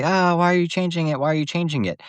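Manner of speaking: put-on, high-pitched complaint; complaining loyalists. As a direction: imitate purist fans moaning about changes. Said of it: "all the loyalists are gonna say".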